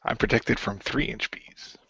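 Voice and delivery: whisper. Pretend. Joking whisper after bees bit.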